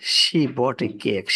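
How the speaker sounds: very slow, word by word; slow example read. Shown as a demonstration. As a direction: read the ship line at a crawl for learners. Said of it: "example sentence read slowly". (ধীরে ধীরে পড়া উদাহরণ)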